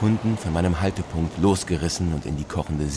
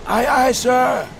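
sailor's reply; 7 dB louder, slower than usual. Acted. Sailor answers the captain's hail.

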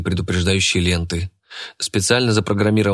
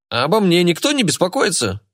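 offended; 9 semitones higher than usual. Acted. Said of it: "обиженно проговорил Кеша".

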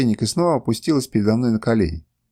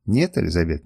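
gently; 6 semitones lower than usual. A narrator's reading. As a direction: gently refuse her, low and calm. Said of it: "мягко возразил я". (мягко, тихо и ниже)

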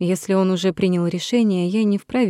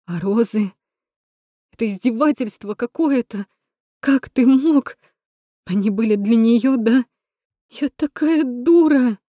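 hurt fury; 5 semitones higher than usual. Acted. Natasha cries out at Rom over the roses. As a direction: cry out betrayed.

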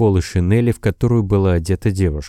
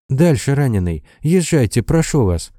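higher-pitched mild plea; pleading; 6 semitones higher than usual. A narrator's reading. Nurse begging the old carter, mildly pleading. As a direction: beg the driver gently to go on. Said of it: "взмолилась девушка".

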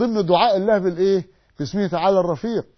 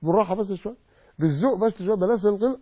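softly coaxing, a touch quieter, easy and kind; gentle soft pleading; 4 dB quieter than usual. Retold or imitated. Preacher voicing people who urge gentleness, softly coaxing. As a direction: hush it down like calming a tense relative. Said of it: "الناس يقول لك".

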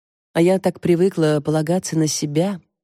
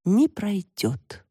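very slow, higher, doomed delivery; drawn-out theatrical despair; tragic tone; 4 semitones higher, much slower than usual. A narrator's reading. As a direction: declare it like a tragic heroine. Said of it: "трагическим тоном произнесла Таська".

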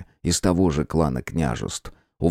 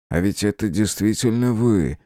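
amazed; 4 semitones higher than usual. Acted. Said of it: "изумился Сава".

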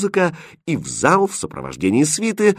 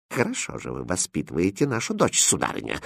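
sinister whisper; 7 dB quieter than usual. Acted. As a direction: hush it with icy threat. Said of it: "зловещим шёпотом сказала королева". (зловещим шёпотом)

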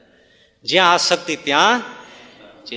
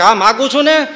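defiant; 6 semitones higher, 7 dB louder than usual. Retold or imitated. Wife defies neighbour.

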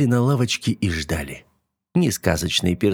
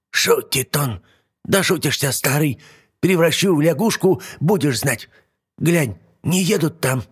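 put-on high cross old hag threatening; angry old witch; 8 semitones higher than usual. Yaga angry at Koshchei.

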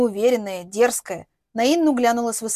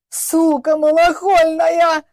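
slow, loud, higher groaning curse; 6 semitones higher, 7 dB louder, much slower than usual. Acted. The father curses his daughter in a loud, slow groan. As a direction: drag the curse out in loud anguish. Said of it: "громко простонал Голубев".

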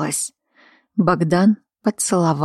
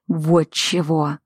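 growled; slower than usual. Acted. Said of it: "прорычал он".

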